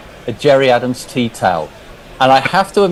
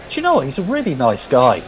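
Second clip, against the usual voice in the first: imitated surprised son; 3 semitones higher than usual. Father quoting his son on Gerry Adams, mock surprise. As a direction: quote a son's earnest discovery, starting high. Quotes son's surprised verdict.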